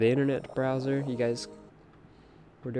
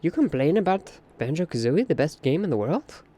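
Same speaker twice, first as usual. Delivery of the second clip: mock outrage; 4 semitones higher than usual. Mock outrage defending favourite game.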